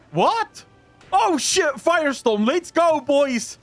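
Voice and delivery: high excited shouting; hyped gamer yell. Real, not acted. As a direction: yell it out, pumped up. Gamer hyped by new ability.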